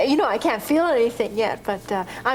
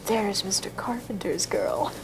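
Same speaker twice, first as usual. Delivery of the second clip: slow, hushed gossip whisper; whispered aside, voice dropped away; whispering secretaries; 3 semitones lower, 5 dB quieter than usual. Retold or imitated. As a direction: imitate secretaries whispering behind someone's back. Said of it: "all the secretaries will whisper".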